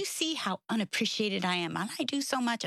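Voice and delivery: retold whine, pitch lifting toward the end; whining. Mom venting to God on a walk, mildly whining. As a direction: act out venting in a mild whine. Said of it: "and I'm whining".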